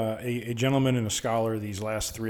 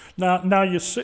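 higher pitch, called out loudly; 8 semitones higher, 5 dB louder than usual. Trying out an impression after a joke about deferring: John Madden impression. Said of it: "that sounded good, John Madden".

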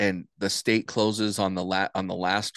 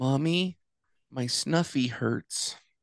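put-on high, slow little toddler voice; 5 semitones higher than usual. Retelling a friend's little boy waking at night calling his mommy, in a toddler voice. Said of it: "in his little almost three-year-old voice".

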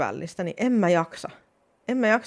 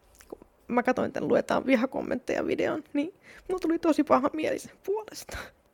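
on the verge of tears, very high-pitched; 10 semitones higher than usual. Talking about reading hate comments on someone's video, tearful and starting to cry. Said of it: "Anteeksi, mä alkaa itkettää".

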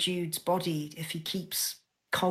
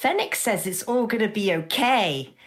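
loud shouted voice, carrying far; 4 semitones higher, 6 dB louder than usual. Narrating a story scene where Spyro turns to a companion: Spyro shouting. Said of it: "and he just sort of shouts".

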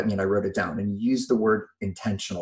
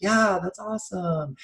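weird, distracted, half-hearted, absent tone, pitched up; 8 semitones higher than usual. Parent showing how they half-answer their kids, weird distracted voice. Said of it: "my weird voice when I go".

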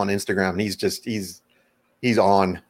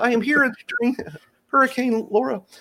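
very high frog puppet voice as a news reporter. Picturing the puppet frog covering a hurricane on the news: Kermit the Frog as news reporter. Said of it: "as Kermit the Frog with a trench coat".

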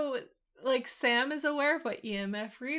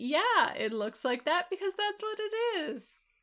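high-pitched, proud, defensive tone. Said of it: "He's so proud".

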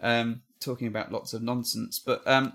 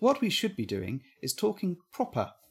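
put-on proper British accent, quieter; 6 semitones higher, 4 dB quieter than usual. Joking about using British accents, the speaker answers in a put-on proper British accent. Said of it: "like that".

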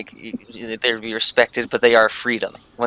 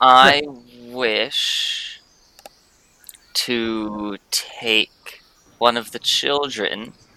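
words spoken very slowly. A player states their character's action on their turn: very slow delivery. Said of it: "you said that statement very slowly".

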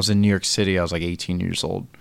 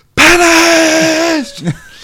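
very loud, very high, shrill, drawn-out screech; 13 dB louder than usual. Telling how a man stopped in the middle of the street, retelling his scream. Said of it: "just stops in the middle of the street and just screams".

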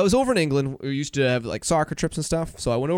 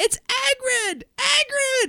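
mock kids' yelling, very high-pitched. Retelling how smoking kids taunted a boy: imitating kids yelling. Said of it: "they start yelling at this kid".

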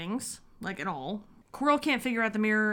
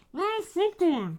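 muffled put-on villain voice, higher pitch; 9 semitones higher, 3 dB louder than usual. Acting out a scene from the movie: muffled Voldemort voice. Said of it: "Voldemort's voice had been muffled before the turban was removed".

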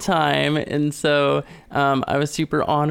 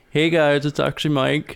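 put-on manly, butch voice. Pretending to be Mike after being greeted by his own name: put-on manly butch voice. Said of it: "you sound so manly and butch".

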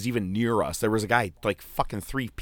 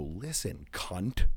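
hushed, quiet whisper under the breath; 3 semitones lower, 8 dB quieter than usual. Retelling what they said back to a woman who told them to lower their sign, whispering. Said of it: "I don't know why I'm whispering right now".

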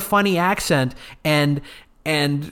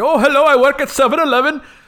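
old stand-up style put-on Indian accent, pitched up; 9 semitones higher, 5 dB louder than usual. Imitating old stand-up acts by white comedians, in a mock indian accent. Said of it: "do an Indian accent".

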